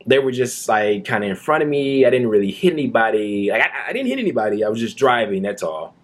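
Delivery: mock a cop scrambling to deny it; mocking the sergeant. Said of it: "the sergeant, goes".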